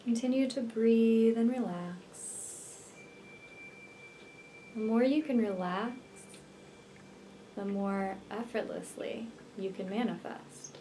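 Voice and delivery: unhurried meditation voice with long pauses; guided meditation. Real, not acted. Healer leading listeners to visualize twin flame union, guided meditation. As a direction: guide the listener gently into relaxation, leaving space between phrases.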